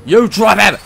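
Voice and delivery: screaming high and loud at the thief; yelling at the enemy who grabbed Toad; furious shout. Real, not acted. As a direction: roar at him to drop your friend.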